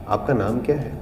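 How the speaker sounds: gentle, quiet, courteous asking; soft polite tone asking a name. Shown as a demonstration. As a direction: ask kindly and softly. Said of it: "कभी soft हो गया".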